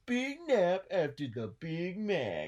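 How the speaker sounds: loud trailer announcer; movie trailer voice. Pretend. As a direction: boom it like a film trailer. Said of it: "like a movie trailer".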